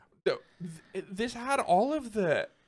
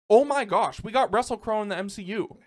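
laughing disbelief; 8 semitones higher, 6 dB louder than usual. Real, not acted. Gushing in disbelief about Russell Crowe.

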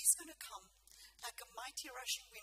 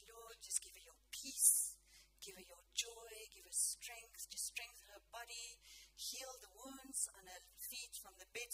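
retold prayer; 4 dB quieter than usual. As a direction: gently lay out each blessing, a little hushed. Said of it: "I started praying".

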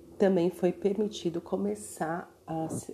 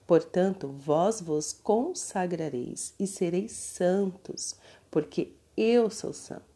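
solemn, louder Bible reading; scripture reading; 3 dB louder than usual. Acted. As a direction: proclaim it like a preacher. Reads Leviticus passage aloud.

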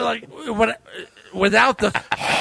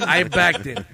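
says it through a laugh; laughing at his own parking; 5 semitones lower, slower than usual. Real, not acted. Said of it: "Like, what?".

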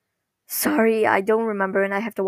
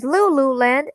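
higher, rising excited cry; 4 semitones higher, slower than usual. Retold or imitated. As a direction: imitate someone bursting in thrilled. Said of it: "Millie breaks through the window".

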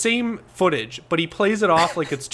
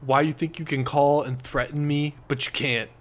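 edgelord Zach. Retold or imitated. Zach Baggins threatening the producer back, mock edgelord hush. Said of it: "he talks like".

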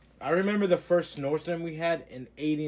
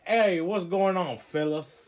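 higher, louder mobster greeting; mob boss; 4 semitones higher, 3 dB louder, slower than usual. Acted. Host showing what Gray Hulk is like, mob boss. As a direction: hail the crew like a mob boss. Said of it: "a mob boss. He's like".

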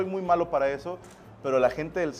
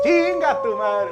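exclaiming; 6 semitones higher, 6 dB louder, much slower than usual. Real, not acted. Host exclaims, slowly.

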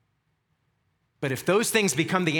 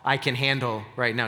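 a lightly voiced dim, lazy Paul, lower and fast; tossed-off mock slacker, a touch lower; preacher mocks a lazy Paul, lightly lowered and fast; 5 semitones lower than usual. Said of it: "just being a little slow and just lazy".

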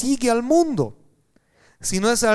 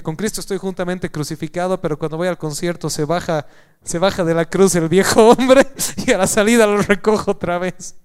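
mock quote; 5 dB louder than usual. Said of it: "Fuera de bromas".

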